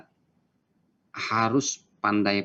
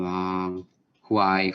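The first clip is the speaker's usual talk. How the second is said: yawn; 3 semitones lower than usual. Shown as a demonstration. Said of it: "Jangan menguap".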